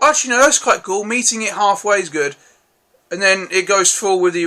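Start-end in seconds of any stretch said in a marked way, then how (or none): 0.0-2.3 higher, brighter realisation, pitched up; a sudden change of mind, pitched up; pleasantly surprised. Retold or imitated. A reviewer recalling his surprise at the ending, pitched up. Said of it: "which I thought".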